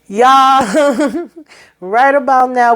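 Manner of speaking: high word breaking into a laugh. Real, not acted. Exasperated reviewer to her viewers, laughing.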